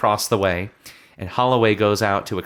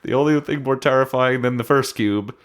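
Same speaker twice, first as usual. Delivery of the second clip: movie trailer voice; 4 semitones higher than usual. Shown as a demonstration. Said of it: "switching to this very serious trailer voice".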